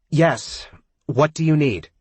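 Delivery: high, loud, annoyed shout; yelling back. A narrator's reading. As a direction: yell back impatiently. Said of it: "It forces Brooke to yell back".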